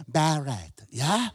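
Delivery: buried said the English way, "berry-d"; English accent. Shown as a demonstration. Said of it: "I've got to say".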